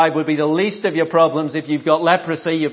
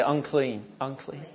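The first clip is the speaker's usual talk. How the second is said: leper's warning cry; 4 semitones lower, 12 dB quieter than usual. Retold or imitated. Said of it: "You have to say".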